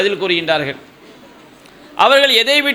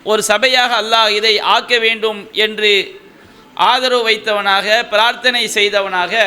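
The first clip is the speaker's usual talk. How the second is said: preaching. Acted. Rising exhortation to audience.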